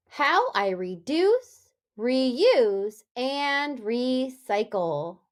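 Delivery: the title said slowly, each R word drawn out; slow title read. Shown as a demonstration. Teacher announcing the book title, slow and clear. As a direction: stretch out reduce, reuse, recycle. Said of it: "Let's read a story".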